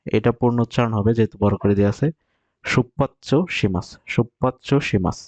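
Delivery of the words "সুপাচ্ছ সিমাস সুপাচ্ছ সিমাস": slow, drawn-out "সুপাচ্ছ সিমাস" with the u nearly dropped; careful pronunciation demo. Shown as a demonstration. Teacher models the Japanese for Bengali learners, slow and careful. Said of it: "এইভাবে উচ্চারিত হবে এটা".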